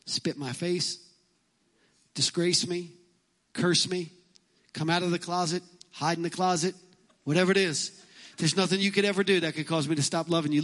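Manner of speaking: put-on a father gently promising his kids unconditional love; telling my kids. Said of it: "I used to tell my kids".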